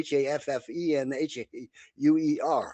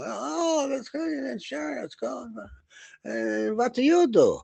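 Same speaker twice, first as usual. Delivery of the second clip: put-on high, stiff German accent; German captain accent; 12 semitones higher, slower than usual. German captain quizzing guests at his table, high stiff German accent. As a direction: play the German captain holding court. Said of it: "I remember his accent".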